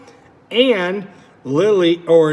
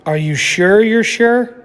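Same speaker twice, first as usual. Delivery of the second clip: put-on higher, pleading child's question; anxious Lily; 4 semitones higher, 5 dB louder than usual. Lily asks Ginger if she is sure, higher pleading voice. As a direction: gently press a nervous friend.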